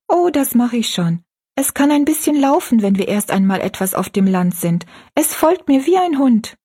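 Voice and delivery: a hint of a gentle young girl; young girl Rosalie. Rosalie reassures Betty Ann.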